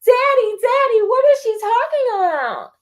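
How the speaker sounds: put-on high, pleading little-girl voice; cling to daddy, frightened; a small girl clutching her father, high and scared.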